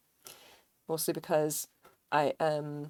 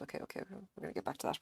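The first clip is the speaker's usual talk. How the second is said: whispering; 3 semitones higher, 9 dB quieter, faster than usual. Real, not acted. Muttering while counting.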